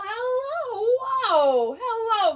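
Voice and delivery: high, loud, eager little owl; puppet owl. Acted. Owl puppet greeting the teacher, high and eager. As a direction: greet like a thrilled puppet friend.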